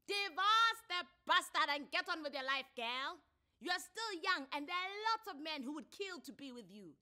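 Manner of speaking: high, loud gossipy advice; sassy bystander woman. A narrator's reading. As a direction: urge her on, brash and high. Another lady advises Thuli.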